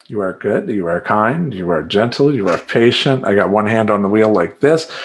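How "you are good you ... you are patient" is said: mantra to calm down. Shown as a demonstration. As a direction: repeat it like a prayer to stay calm in traffic. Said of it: "Just in pure road rage".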